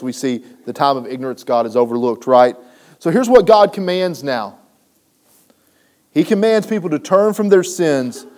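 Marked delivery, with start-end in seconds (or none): 3.0-8.2 louder, higher preaching build; fiery preaching. Acted. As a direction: drive it home like a preacher. Preaching at full force.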